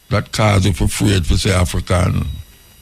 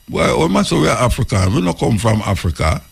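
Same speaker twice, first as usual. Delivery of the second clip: radio voice; 3 semitones higher, faster than usual. Retold or imitated. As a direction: mimic the radio announcer lightly, brisk. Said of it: "you hear this voice on the radio say".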